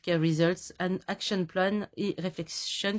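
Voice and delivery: English words in a heavy French accent; self-mocking French accent in English. Real, not acted. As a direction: read the English labels the French way. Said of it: "un accent anglais qui est top".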